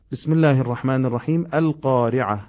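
القارعه begun with a clear a sound, alone; hamza read as fa-tha at the start. Shown as a demonstration. Teacher starting the sura at القارعه with an opening a.

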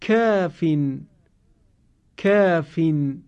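کافین with a thin, light long آ. Shown as a demonstration. Teacher modelling کافین with thin aa. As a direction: keep the آ in کافین small. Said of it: "صدای کشیدهٔ آ قرار گرفته".

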